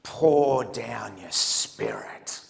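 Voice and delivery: drawn-out, slow prayer voice; lightly voiced earnest prayer, stretched out; slow solemn prayer. Albie praying to the group, slow solemn intoning. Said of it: "he prays this".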